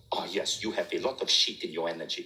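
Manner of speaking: put-on low-pitched French-accented verdict. Marie looks at Vishen and judges his energy, French accent. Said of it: "in her French accent".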